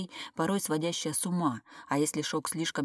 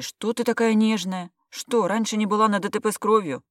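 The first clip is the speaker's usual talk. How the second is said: frowning; 5 semitones higher, 7 dB louder than usual. A narrator's reading. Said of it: "свела брови Степанова".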